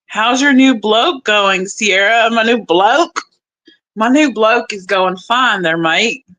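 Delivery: put-on hammy, amateur Australian accent. Joking about her new bloke, amateur Australian accent. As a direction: have a go at a cheesy Australian accent. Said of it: "work on my Australian accent".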